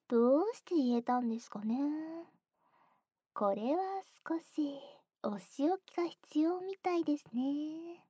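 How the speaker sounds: teasing, scolding whisper; mock-strict ear whisper; stern whisper. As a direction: whisper the threat playfully.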